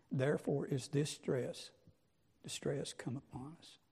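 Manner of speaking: reading the King James text out, measured and solemn; scripture reading. Acted. Preacher reads Joseph's words to the congregation, solemn scripture reading. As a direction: read the old verses with weight, like a preacher at the pulpit.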